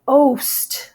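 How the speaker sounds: "oast" said as one long syllable; "oast" with the middle vowel dropped; contracted pronunciation. Shown as a demonstration. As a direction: draw out "oast" as a single syllable. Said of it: "that's pronounced oast".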